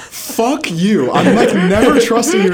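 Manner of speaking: mock angry. Real, not acted. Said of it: "I'm actually so pissed".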